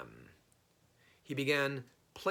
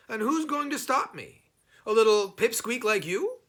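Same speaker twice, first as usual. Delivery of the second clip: higher, louder mocking challenge; bold Herschel; 10 semitones higher, 8 dB louder than usual. Herschel scoffing at the little goblin, higher and louder. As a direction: taunt the little pest.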